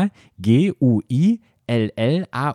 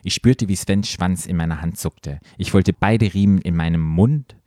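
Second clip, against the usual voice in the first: low, measured read-aloud voice; composed, lower-pitched storytelling; story narration; 6 semitones lower than usual. A narrator's reading. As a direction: narrate it like an audiobook. Reads erotic story aloud.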